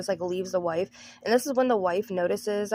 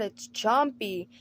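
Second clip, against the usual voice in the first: dramatic slow reveal; much slower than usual. Retold or imitated. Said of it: "Then Jackson's like".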